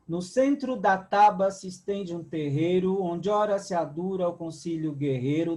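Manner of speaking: measured poetic recitation; poem reading. Acted. Teacher reading a poem aloud to students, measured recitation. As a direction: recite the verse steadily for the class.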